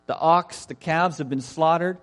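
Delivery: lightly acted emphatic announcement; emphatic servants. Preacher voices servants announcing the banquet, mildly emphatic. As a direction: call the guests to dinner with some insistence. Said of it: "they're a lot more emphatic".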